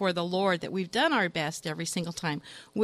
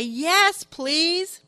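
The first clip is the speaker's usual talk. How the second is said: put-on drunk voice; 8 semitones higher, 3 dB louder than usual. Drunk answers from afar.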